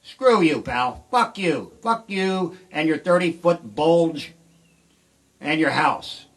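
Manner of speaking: loud angry yell, slow and drawn out; yelling Calvin Klein's name out on a roadside; yelling at billboard. Retold or imitated. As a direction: bellow insults at the rich neighbour's house. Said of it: "I just stood there and went".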